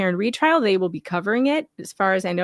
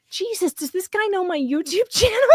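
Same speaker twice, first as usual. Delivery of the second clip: mock panic; 10 semitones higher than usual. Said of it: "I'm like".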